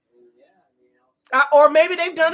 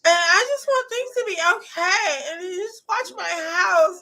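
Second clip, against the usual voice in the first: mock whiny crying; 3 semitones higher than usual. Mocking the neighbor begging them to watch the house. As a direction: whine it through fake tears. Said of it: "she talk like a baby".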